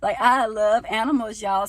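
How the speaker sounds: loud, emphatic declaration; loud and passionate. Real, not acted. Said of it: "I'm getting so loud".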